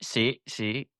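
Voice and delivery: put-on low-pitched Spanish accent; a few words of hammed-up Spanish; playful Spanish. Showing off Spanish after sexy remark.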